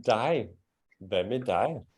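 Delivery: "dig" with a silent G, rhyming with "eye"; corrected pronunciation. Shown as a demonstration. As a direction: model "dig" to sound like English "die".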